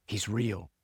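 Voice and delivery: softly voiced, hushed awe; awed whisper. A narrator's reading. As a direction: read it as a soft, awestruck murmur. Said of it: "Volga whispers, gripped with awe".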